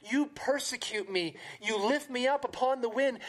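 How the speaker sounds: lightly voiced anguished Job, pleading; Job's lament. Preacher reading Job to the congregation, lightly anguished. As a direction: read it as a grieving man accusing God.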